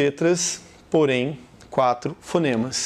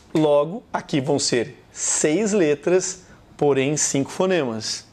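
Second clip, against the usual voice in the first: normal talking voice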